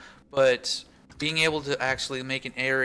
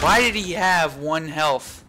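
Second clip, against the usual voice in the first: surprised; 4 semitones higher, 6 dB louder, slower than usual. Real, not acted. Surprised at enemy one health.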